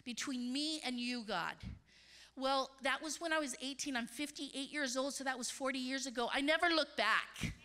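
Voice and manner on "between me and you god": low and hushed, serious; solemn vow. Retold or imitated. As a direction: say it like a private oath. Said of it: "so I got".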